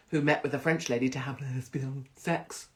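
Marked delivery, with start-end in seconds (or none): 1.4-2.7 mock muffled voice on lesbian; hammed-up mouthed lesbian; rug muncher impression. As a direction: garble the word as a crude impression. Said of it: "That was my impression of a rug muncher".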